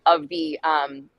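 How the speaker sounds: talking while chewing gum. Real, not acted. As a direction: speak around a wad of gum. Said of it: "I do have gum in my mouth".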